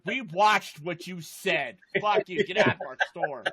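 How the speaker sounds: slow, mock-stern shopkeeper brushing him off; hammed-up shop owner telling him to get out; mock pawn shop clerk. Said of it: "The pawn shop's like".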